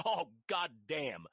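slow, drawn-out dismay; changed tone. Retold or imitated. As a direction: concede slowly, as if stumped. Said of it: "he immediately changed tone".

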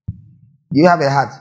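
slow question. Shown as a demonstration.

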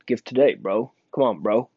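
imitated tough-guy challenge, lightly done; quick opening, then goading him with each "bro"; mock stepping up to someone; bucking up. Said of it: "buck up and tell me".

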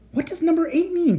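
high, loud shout at his sister; shouting over engine noise. Acted. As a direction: yell the question over the roar. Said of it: "he shouted".

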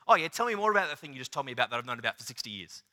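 fast, lightly sarcastic dad quip; a hint of a smirking father. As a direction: tease like a dad who already knows. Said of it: "the kind of smirk your dad gets".

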